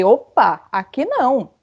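imitando de leve um basta em voz mais firme; voz levantada. Retold or imitated. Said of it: "eu levantei dois tons a mais". (levantando um pouco a voz para impor limite)

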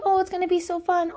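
gushing high cheer. Retold or imitated. Repeated gushing.

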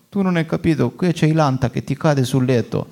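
put-on Sicilian accent from Palermo; Palermitan accent. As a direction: quote the workman in a Palermo accent. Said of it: "perché l'hai fatto con questo tipico accento palermitano?".

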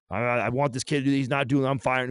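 mildly acted frustrated outburst; retold frustrated protest. Acted frustrated reply to mentor.

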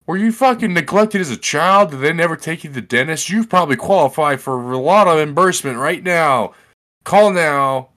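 pushy ad voice at full volume; hard-sell pitchman. Acted. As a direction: belt it out like a call-now ad. Acting out a call-now pitch.

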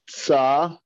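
"sa" drawn out with a ts onset; TS sound. Shown as a demonstration. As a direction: demonstrate "sa" as a long tsa. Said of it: "So the tzaddik is sa".

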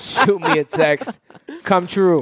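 put-on slow, joking Caribbean accent; hammed-up Caribbean accent. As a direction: draw it out in a playful Caribbean accent. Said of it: "if your accents are racist".

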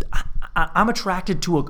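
normal talking voice

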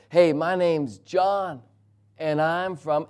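slow, slightly odd stranger voice; a little strange. Retold or imitated. Stranger introducing himself at the car window, a little strange. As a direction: draw it out a bit oddly, without yelling. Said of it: "Normal volume, a little strange".

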